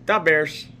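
"da Bears" in Chicago accent, "da" for "the". Shown as a demonstration. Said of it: "Chicago's weird".

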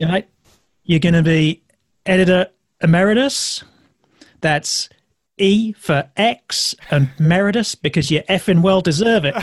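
put-on light Australian accent, laughing through; lightly voiced Australian media boss. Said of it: "I shouldn't be doing an Australian accent, but I will".

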